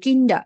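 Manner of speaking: "কিন্ডা" ending in an open A; final R as A. Shown as a demonstration. Teacher showing student the final German R, said as A. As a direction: end "কিন্ডা" on a vowel, no R. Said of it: "আরটা কি আর মতো উচ্চারণ".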